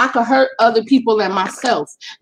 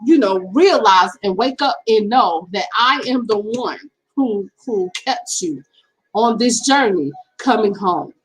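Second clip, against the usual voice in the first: God speaking; 3 semitones lower than usual. Retold or imitated. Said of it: "So God was speaking to me and telling me".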